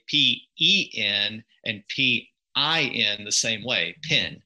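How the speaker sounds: "pin" with one vowel serving pen and pin; pen-pin merger. Shown as a demonstration. Linguist showing his natural accent, merged vowel. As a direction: spell it out, then "pin" for both words. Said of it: "So in my accent, naturally, I would say".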